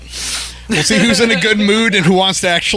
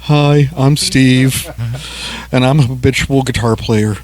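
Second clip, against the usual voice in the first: slow deliberate; 3 semitones lower than usual. Pretend. Redoes intro slowly, louder.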